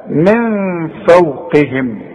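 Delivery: من فوقهم slowly with ن hidden and nasal; slow demo. Shown as a demonstration. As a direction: draw out من فوقهم. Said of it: "من حروف الإخفاء".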